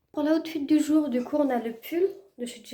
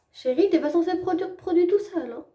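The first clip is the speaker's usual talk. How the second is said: mock scolding; 7 semitones higher, 6 dB louder than usual. Scolds the empty cream tube.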